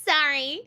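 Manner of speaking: amused "sorry" with open SAR vowel; American "sorry". Shown as a demonstration. Streamer amused by the American way, "sorry" as SAR-ee. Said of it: "I don't know how Americans say it".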